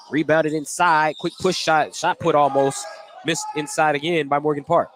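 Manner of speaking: brisk courtside call of the action; steady announcer's game call; live play-by-play. Acted. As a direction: call each pass as it happens.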